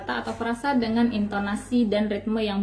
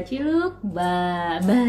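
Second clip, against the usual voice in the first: playful peekaboo; much slower than usual. Shown as a demonstration. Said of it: "diajarin aja".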